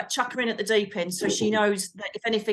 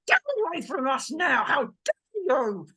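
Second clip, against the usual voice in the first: commanding shout; 4 semitones higher than usual. Retold or imitated. Ordering the dark spirit off, a firm shout. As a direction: drive the spirit off with authority.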